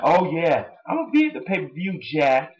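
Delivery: hammed-up Rock catchphrase, swooping high; imitating a wrestler's promo; mock Rock impression. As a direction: ham up the cooking line. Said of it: "And The Rock's like".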